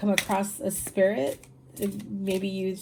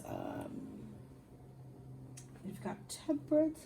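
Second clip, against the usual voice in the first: yawning; 12 dB quieter than usual. Real, not acted. Tired reader naming a card to viewers, yawning. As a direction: say it as a yawn takes over. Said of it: "I apologize for yawning".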